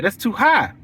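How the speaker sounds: flat falling complaint in a lightly voiced client; client complaining. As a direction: state the price is too high, mildly put out. Client repeats her complaint.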